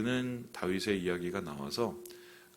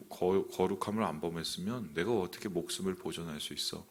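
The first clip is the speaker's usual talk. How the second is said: self-justifying; 2 semitones lower than usual. Retold or imitated. Preacher imagining David excusing his own lie, mildly self-justifying. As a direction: voice a mild, relieved self-excuse under your breath. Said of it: "그렇게 생각하면서 자기를 합리화하는 것으로".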